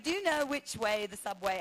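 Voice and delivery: put-on British accent; feigned British tourist asking the way. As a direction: try passing as British. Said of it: "I have to be British".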